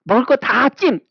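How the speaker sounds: put-on high, whiny child claiming everything; greedy child. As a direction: grab it all like a greedy kid. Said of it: "해갖고".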